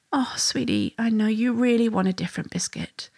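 gently soothe, dropping the volume; loving. Shown as a demonstration. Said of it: "doing it in a really loving".

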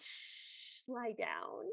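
soft hushed shh; hushing. Retold or imitated. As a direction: whisper him to sleep. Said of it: "he goes".

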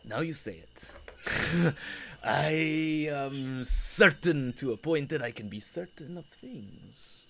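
hammed-up bad Russian accent; scheming villain in a Russian accent; the speaker's Russian accent. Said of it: "I'll try and do my Russian accent again".

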